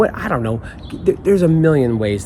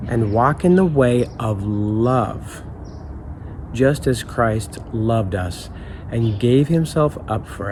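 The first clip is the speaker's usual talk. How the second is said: scripture reading. Acted. Rereads the verse.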